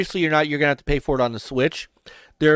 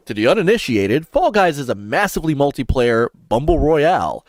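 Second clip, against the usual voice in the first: lightly put-on radio announcer; 4 dB louder than usual. Shown as a demonstration. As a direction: read it out with a touch of radio-host delivery. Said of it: "I'll use my radio voice".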